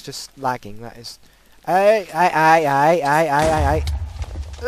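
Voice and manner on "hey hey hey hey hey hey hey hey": alarmed hey. Real, not acted. Chased by mobs.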